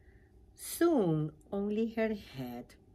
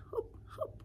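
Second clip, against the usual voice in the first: light hopping voice; 5 dB quieter, faster than usual. A narrator's reading. Narrating frog hopping.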